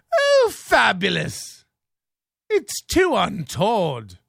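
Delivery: slow, high prissy impression; lightly mimicked posh caller. Imitating the caller's prissy fabulous. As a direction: drawl it out like the prank caller.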